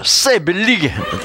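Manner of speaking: playful Gyeongsang dialect phrase. Shown as a demonstration. Lecturer shows the audience a funny regional phrase, in Gyeongsang dialect. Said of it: "경상도 말이 재밌어요".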